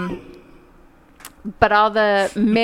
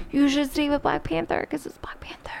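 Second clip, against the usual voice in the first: whispered aside; 3 semitones higher, 6 dB quieter than usual. Retold or imitated. Acted inner voice, torn.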